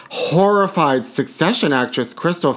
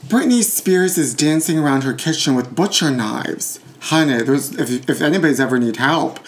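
normal talking voice

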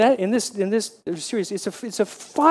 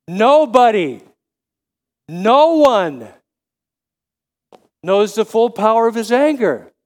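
emphatic answer; 3 semitones higher, 6 dB louder than usual. Real, not acted. Preacher answering with force.

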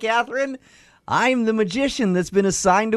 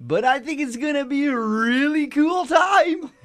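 magician voice; 4 semitones higher than usual. Acted. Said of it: "Stop using that voice".

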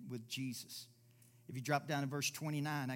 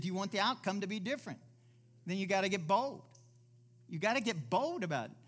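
higher, louder, pushing bold; repeat it louder; 5 semitones higher, 6 dB louder, faster than usual. Shown as a demonstration. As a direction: drive it home with force. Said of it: "I said".

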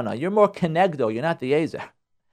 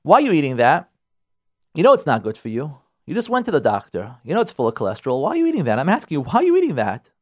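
nagging wife; 4 semitones lower than usual. Retold or imitated. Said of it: "He's feeling controlling".

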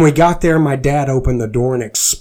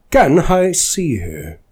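very nice; 4 semitones higher, slower than usual. A narrator's reading. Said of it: "I asked very nice-like".

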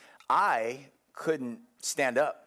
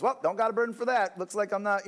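mock excuse; 7 semitones higher than usual. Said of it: "how we are as humans".

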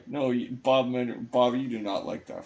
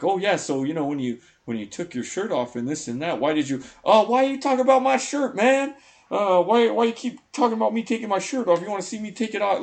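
much higher and louder, an indignant outburst; mock angry rant; 11 semitones higher, 8 dB louder than usual. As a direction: ham up an irritated athlete snapping back at the interviewer. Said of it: "he would get so fucking pissed".

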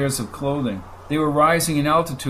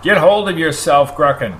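louder, commanding call; crying out; 3 semitones higher, 6 dB louder than usual. Acted. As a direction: snap him out of his panic. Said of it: "cried Antovian".

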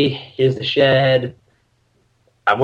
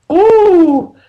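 high, loud whoop sliding into words; playful rising alarm at reality; retold overwhelmed reaction; 12 semitones higher, 6 dB louder, slower than usual. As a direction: let out a high ooh, half laughing. Acting out reaction to empty room.

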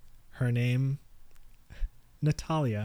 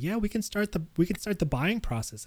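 imitating saleslady; 7 semitones higher than usual. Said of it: "She's like".

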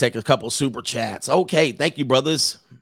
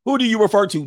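mom's outraged squeal, much higher and louder; shrieking mom; 11 semitones higher, 4 dB louder than usual. Retold or imitated. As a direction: mom can't believe her daughter. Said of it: "Mom's like".

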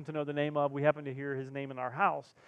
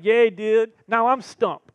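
cheering wife; 5 semitones higher, 11 dB louder, much slower than usual. Retold or imitated. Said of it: "She's like".

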